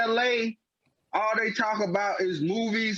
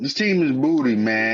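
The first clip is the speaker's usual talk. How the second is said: emphatic; 7 semitones lower, 7 dB louder than usual. Real, not acted. Heated rant about the Clippers.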